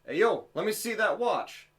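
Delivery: high-pitched mock street call; half-yelled retold demand, pitched well up; imitated yell. Imitating a guy eyeing his watch, calling out. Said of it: "heard this guy yell at me".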